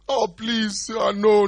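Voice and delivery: high, pleading Saul; begging Saul. Retold or imitated. Saul begging God not to reject him, high pleading. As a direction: beg like a rejected king.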